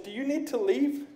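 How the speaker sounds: soft, polite, quiet question; soft polite question, nearly hushed; calm quiet question. Retold or imitated. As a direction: ask it gently and quietly. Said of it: "I said about like that".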